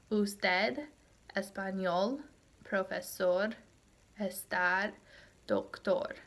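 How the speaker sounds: "Usted, español, profesor, estar, doctor" stressed usTED, espaÑOL, profeSOR, esTAR, docTOR; stress on last syllable. Shown as a demonstration. Teacher showing where stress falls, "Usted, español, profesor, estar, doctor" stressed on final syllables. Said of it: "hear that where the stress on the word falls".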